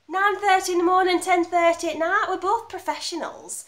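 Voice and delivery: loud, high, insistent delivery; emphatic assurance. Acted. Actress assuring director they are both professionals, emphatic. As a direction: brush his worry aside briskly and firmly. Brushing off his embarrassed request.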